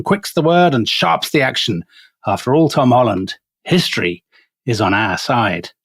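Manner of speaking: a lightly voiced rousing sea captain rallying his crew; a hint of Russell Crowe's stirring Jack Aubrey; Russell Crowe impression. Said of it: "My superb Russell Crowe voice".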